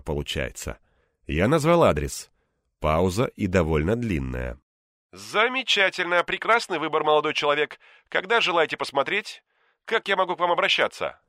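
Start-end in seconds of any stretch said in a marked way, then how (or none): 5.1-11.2 higher, polished script voice; scripted support voice. A narrator's reading. Realtor to caller, scripted support-desk politeness. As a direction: read it like a call-center script. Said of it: "как из службы поддержки? По скрипту".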